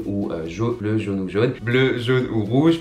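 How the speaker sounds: carefully spelled out, slowed down; slow it right down to get it right; slow, careful listing. Real, not acted. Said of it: "je vais vraiment avoir du mal".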